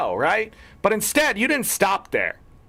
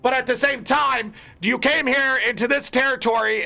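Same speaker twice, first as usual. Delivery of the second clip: heated rant; 3 semitones higher than usual. Real, not acted. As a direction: vent at the commenter who provoked you. Angry rant at wiki commenter.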